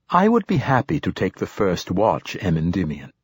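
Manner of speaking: lightly voiced polite android; a hint of a courteous machine; calm android voice. Android offers watch.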